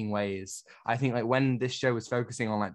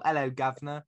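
put-on cliché British accent; 3 semitones higher than usual. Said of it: "two steps away from the whole".

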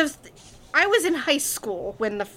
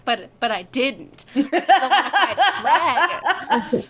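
whiny protest; 3 semitones higher, 6 dB louder, slower than usual. Retold or imitated. Whiny mock protest quote.

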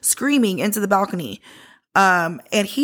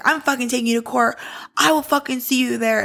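higher-pitched mock threat; imitated angry rant; 4 semitones higher than usual. Uncle threatens her with court, imitated rant. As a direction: act out him going off, only moderately heated. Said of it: "He went off".

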